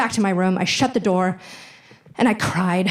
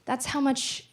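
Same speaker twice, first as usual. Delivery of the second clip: reluctant sad mom; 3 semitones higher, 7 dB quieter than usual. Retold or imitated. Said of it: "she looked very reluctant and sad".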